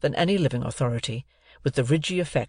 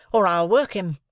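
threatening; 6 semitones higher, 3 dB louder than usual. A narrator's reading. Sister threatens boy.

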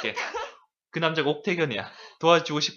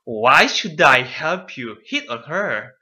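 slow, louder, disbelieving; incredulous; 5 dB louder, much slower than usual. Shown as a demonstration. Teacher shows the student the native speaker's disbelief. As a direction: spit it out like it's absurd. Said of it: "원어민 선생님 감정이 어때".

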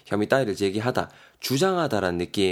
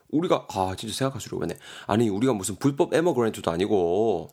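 억울한 항의; 2 semitones higher than usual. Acted. 억울한 대거이 대사 연기.

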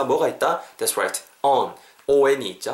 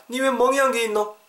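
high-pitched, startled questioning; alarmed dialect question; 10 semitones higher than usual. Acted. Friend asking about a bruise, high alarmed dialect. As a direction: demand an explanation in Korean dialect.

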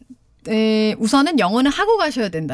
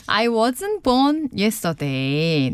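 slow teaching read; much slower than usual. Shown as a demonstration. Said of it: "이렇게 말하면 되겠습니다".

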